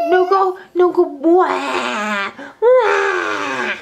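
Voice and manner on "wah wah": drawn-out pretend wail; mock baby cry. Mother showing her child how to act a crying baby, mock wailing. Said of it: "act like a crying baby".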